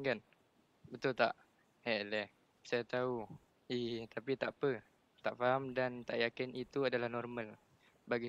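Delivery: measured read-aloud with some feeling. Real, not acted. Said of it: "Slow sikit".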